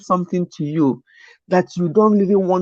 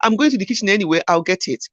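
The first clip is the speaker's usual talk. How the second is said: easygoing reply; faster than usual. Retold or imitated. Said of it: "I said".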